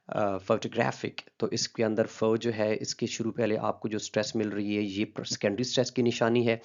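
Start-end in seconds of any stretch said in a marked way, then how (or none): 0.4-1.1 photographic drawn out very slowly, syllable by syllable; slow stress demo. Shown as a demonstration. Teacher slowly models stress levels for students, careful demo. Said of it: "अगर आप ये word देखें".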